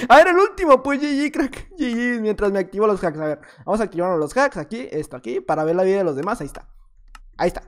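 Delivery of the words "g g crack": ordinary delivery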